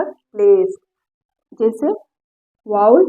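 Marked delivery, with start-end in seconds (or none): 0.0-0.8 "प्लेस" with a long A sound; long vowel. Shown as a demonstration. Teacher modelling the rule for learners, "प्लेस" with long vowel. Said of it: "वो long sound देगा".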